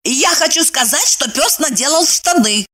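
clumsily correcting herself; awkward correction. Acted. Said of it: "неуклюже поправилась".

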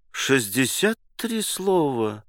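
delighted gasp. Acted. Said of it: "восхищённо ахнул".

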